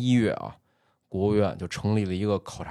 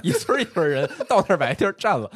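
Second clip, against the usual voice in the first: laughing; 9 semitones higher, 4 dB louder, faster than usual. Real, not acted. Joking about a village moving over.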